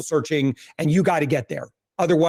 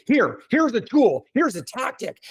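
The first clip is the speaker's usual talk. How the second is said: higher-pitched, emphatic sales handoff; eager advice-giver; 5 semitones higher than usual. Retold or imitated. People recommending a tool to collect butterflies, eager advice-giver. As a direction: imitate someone pushing a quick fix. Voicing people who push tactics.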